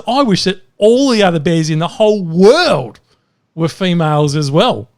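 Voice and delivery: mildly hammed-up eagerness; emphatic wishing. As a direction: build it up as a grand demand. Bear's escalating final wish in joke.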